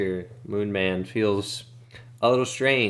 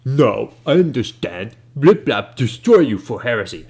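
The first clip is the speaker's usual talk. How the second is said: much louder eager outburst; excited Ben Dubas; 3 semitones higher, 9 dB louder than usual. Acted. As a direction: burst in with the warning.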